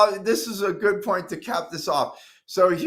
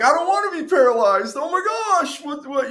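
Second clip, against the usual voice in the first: retold panic; 9 semitones higher, 4 dB louder than usual.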